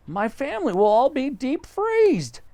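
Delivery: monkey pleased with the tree house; Mugglewump. Acted. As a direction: ask it innocently. Mugglewump worried.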